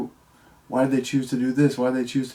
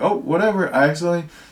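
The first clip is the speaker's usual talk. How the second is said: mock nonchalant, breezy, offhand, pitched up; 5 semitones higher, 5 dB louder than usual. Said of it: "he was just so nonchalant about it".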